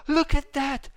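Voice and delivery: thrilled gasp at the screen; sudden delighted gasp; excited gasp. Real, not acted. Spotting something in the game.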